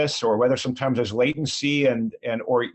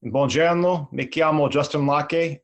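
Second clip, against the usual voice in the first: spoken Italian. Shown as a demonstration. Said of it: "in six different languages".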